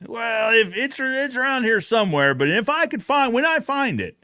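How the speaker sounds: a hint of the stalling sheriff, up high. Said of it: "So he says".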